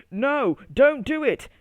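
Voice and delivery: high, loud, slow cry of alarm. A narrator's reading. Tomato begs strawberry not to mix it, alarmed cry. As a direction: stop him before it explodes. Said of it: "cried tall tomato".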